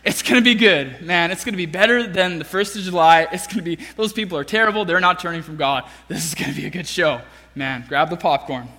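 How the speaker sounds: low, fast, gloating Jonah; mock-gleeful prophet waiting for a show; smug Jonah. Jonah sits watching the city, lightly gloating. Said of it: "He's like".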